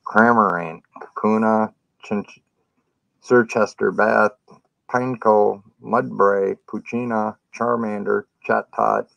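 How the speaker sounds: talking with a mouth full of candy; cheeks stuffed full. Real, not acted. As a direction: mouth full, words around the food. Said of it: "She's gonna put one in my mouth".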